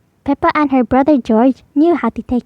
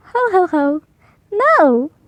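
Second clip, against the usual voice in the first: higher, light chuckling no; laughing no; 6 semitones higher, slower than usual. Acted. Mummy Pig laughing away Peppa's worry. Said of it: "said Mummy Pig".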